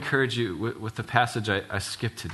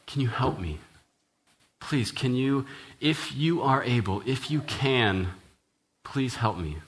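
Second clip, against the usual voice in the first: begging father; 3 semitones higher than usual. Retold or imitated. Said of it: "he begs him".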